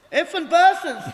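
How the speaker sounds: bellowing curse at the top of his lungs; retold furious shout; loud angry yell. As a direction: roar it like a furious man in the car park. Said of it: "this big loud voice".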